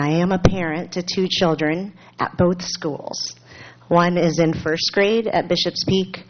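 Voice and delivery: careful, slow read with pauses. Real, not acted. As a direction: read it slowly to keep the details straight. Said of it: "I have to read it slowly here".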